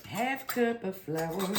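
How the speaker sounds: slow, drawn-out "Half cup of flour"; slow and deliberate. Shown as a demonstration. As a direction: spell it out slowly. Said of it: "we gotta have a half a cup of flour".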